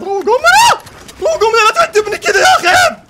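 high, loud laughing pleading shout; laughing plea. Real, not acted. Gamer hunted by enemies, laughing desperate shout. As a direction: laugh and beg them to stop.

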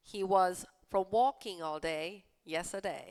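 slow, careful read-aloud; slow clear classroom read. Shown as a demonstration. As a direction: read each word slowly for learners. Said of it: "rereads sentence slowly".

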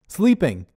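loud, high blurt. Acted. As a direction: blurt the terrible excuse. Connor blurting excuse.

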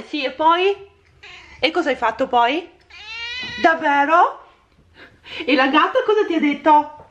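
high, playful cooing chat with the cat. Real, not acted. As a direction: pretend to gossip with the cat. Chatting with cat Denver. (parlare al gatto con vocina)

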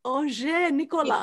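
"Ranger Nicolas" slowly as on-ZHAY nee-ko-LA; French pronunciation. Shown as a demonstration. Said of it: "How would you say Ranger Nick in French".

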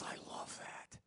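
whispered in wonder; soft awestruck whisper; awed whisper. Retold or imitated. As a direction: breathe it in a hush. David reacting to God's love.

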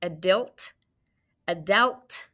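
"Adilt" then "Adelt", each vowel swapped in the last syllable; trying wrong vowels. Shown as a demonstration. Teacher trying out vowels for the spelling. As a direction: test each vowel aloud. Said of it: "I don't like O".

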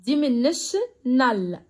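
dimensional drawn out very slowly, each syllable apart. Shown as a demonstration. Teacher to pupils, spelling out the word slowly. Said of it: "تعالوا نشوف كده".

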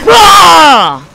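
high, loud, falling scream; long frustrated scream. Real, not acted. Player killed in the match, long frustrated scream. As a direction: scream out the frustration in one breath.

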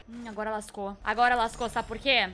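normal talking voice

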